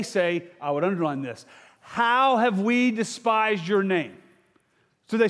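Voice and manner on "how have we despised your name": defiant challenge. Acted. Preacher acts out defiant priests.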